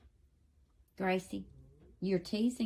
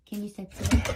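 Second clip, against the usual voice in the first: louder, insistent repeat of the request; louder prompting; 8 dB louder than usual. Real, not acted. Owner insisting the dog say please, louder. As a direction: push the question louder the second time.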